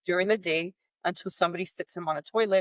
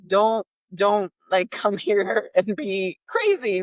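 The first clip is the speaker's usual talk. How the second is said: calming myself; 2 semitones higher, 4 dB louder, slower than usual. Real, not acted. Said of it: "I'm starting to get a little agitated".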